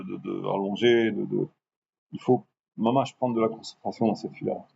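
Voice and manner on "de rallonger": drawn out. Shown as a demonstration. Rabbi showing his class how to drag the words out slowly. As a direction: stretch the word out slowly. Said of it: "la patience de rallonger".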